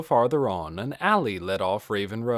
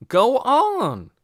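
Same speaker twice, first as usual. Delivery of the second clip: higher, louder bossy big brother voice; big brother scolding; 14 semitones higher, 9 dB louder than usual. A narrator's reading. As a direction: send the kids inside, firm and loud. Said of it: "said the big boy".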